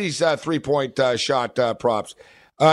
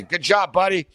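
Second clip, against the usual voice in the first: sarcastic. Retold or imitated. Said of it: "I sort of said sarcastically".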